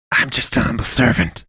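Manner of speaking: false modesty with a smirk in it; smugly. A narrator's reading. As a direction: priest shrugging off the question. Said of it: "he said smugly".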